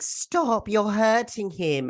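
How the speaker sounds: high, drawn-out plea to stop; imitated protest. Girl protesting as Gunji gets tasered, imitated high alarmed plea.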